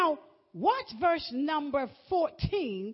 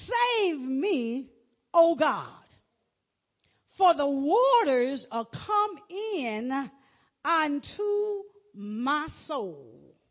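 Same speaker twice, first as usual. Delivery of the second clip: slow, drawn-out psalm reading; scripture reading; 3 dB louder, much slower than usual. Acted. Preacher reading David's plea to God, slow and drawn out. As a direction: stretch each phrase, pausing between. Reads the psalm aloud in sermon.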